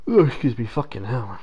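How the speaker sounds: loud, high startled yelp; startled outburst. Real, not acted. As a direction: jump at something sudden. Sudden startle while gaming.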